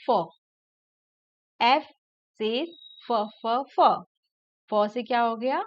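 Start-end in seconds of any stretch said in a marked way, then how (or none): 0.1-3.9 "फ" said as a short crisp phonics sound, repeated; F letter sound. Shown as a demonstration. Teacher to young pupils, sounding out "फ" crisply. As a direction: sound out "फ" clearly for children. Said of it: "जैसे एफ का sound क्या होता है".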